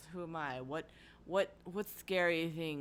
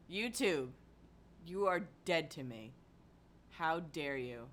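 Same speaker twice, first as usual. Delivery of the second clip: mock coldness; 4 dB quieter than usual. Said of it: "I am very upset right now".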